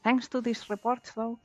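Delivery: lightly voiced pirate; a hint of a gruff pirate. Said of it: "Here's my pirate voice again".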